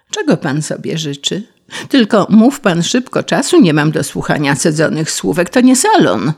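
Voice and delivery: a lightly voiced brusque bee, hurried; impatient bee. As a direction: snap at the grasshopper like a busy bee.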